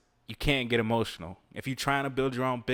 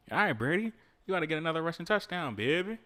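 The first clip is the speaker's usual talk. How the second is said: excited cheering; 7 semitones higher than usual. Real, not acted. Cheering on his game player.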